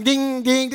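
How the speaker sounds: spoken ringing dings; two ringing notification sounds; imitated phone alert. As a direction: mimic a message chime.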